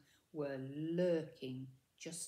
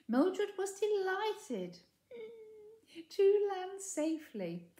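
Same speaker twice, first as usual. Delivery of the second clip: voice catching; 13 semitones higher, 6 dB louder, slower than usual. Real, not acted. Narrator's voice cracks.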